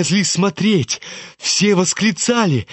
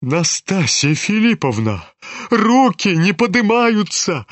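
stunned; 4 semitones higher than usual. Acted. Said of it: "отвечал ошеломлённый Фердыщенко".

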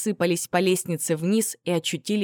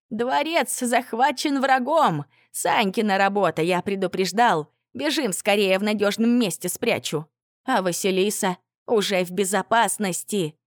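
fake alarm; 3 semitones higher than usual. Traitor fakes alarm to tsar.

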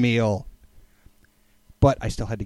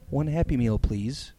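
trembling voice; 5 dB quieter, slower than usual. Retold or imitated. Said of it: "I said in a trembling voice".

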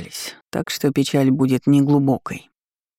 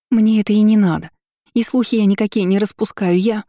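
flustered protest; 5 semitones higher, 3 dB louder than usual. Acted. Служанка оправдывается.

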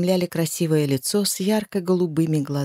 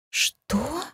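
too loud; 9 semitones higher, 5 dB quieter than usual. Acted. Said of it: "Слишком громко переспросила я".

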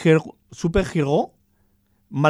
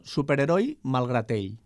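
Catalan version; 4 dB quieter than usual. Shown as a demonstration. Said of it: "queda un poco el catalán".

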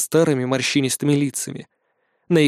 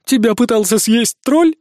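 high, loud dwarf question; red-bearded dwarf asking in a high voice; high tenor voice; 8 semitones higher, 5 dB louder than usual. Acted. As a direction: ask in a near-tenor pitch. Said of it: "высоким голосом, почти тенором".

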